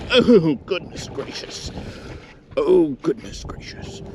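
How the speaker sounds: slow, lightly put-on British exclamation; a playful British gent marvelling; understated British accent, drawn out; mock British accent. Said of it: "I just turned into a British man".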